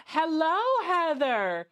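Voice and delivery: high-pitched mock-British greeting; sophisticated British accent. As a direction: put on a refined British tea-time voice. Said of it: "voice in my head is so sophisticated".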